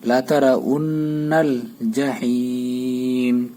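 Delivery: verse chanted slowly with a nasal নু; slow recitation. Shown as a demonstration. Teacher reciting the verse with ghunna. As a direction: draw it out with ghunna. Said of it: "নুনে গুণ্য করতে হবে".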